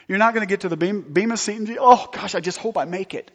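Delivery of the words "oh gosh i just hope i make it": lightly hammed-up fretting; a touch of mock dread; mock worry. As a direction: play an anxious believer hoping to scrape in. Voices anxious believer at judgment.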